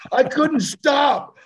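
high, loud, drawn-out wail; mock bawling. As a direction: imitate uncontrollable crying. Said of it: "that kind of cry".

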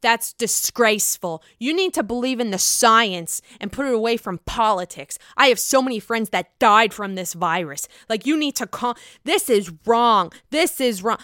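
retold furious scolding; mock outraged rant. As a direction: imitate her scolding hard. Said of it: "Dorinda goes rogue".

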